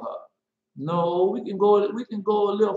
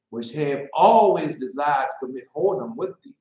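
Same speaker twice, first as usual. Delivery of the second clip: mock biblical prophet; 2 semitones lower than usual. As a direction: declaim it like a prophet. Reading the woe prophecy.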